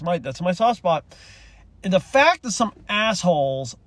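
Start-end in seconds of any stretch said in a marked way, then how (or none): 1.8-3.8 real indignation, higher, hitting key words; heated restart, punching the insult; a little angry. Real, not acted. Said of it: "I'm gonna get a little angry about this".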